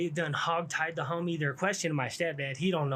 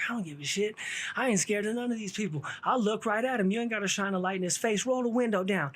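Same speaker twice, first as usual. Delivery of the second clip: imitating a brash witness; 5 semitones higher than usual. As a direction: play the fearless eyewitness mouthing off. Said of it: "she's talking crazy".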